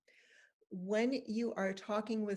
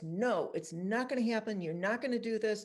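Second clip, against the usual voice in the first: parental refusal; 4 dB louder than usual. Retold or imitated. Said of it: "my judgment was".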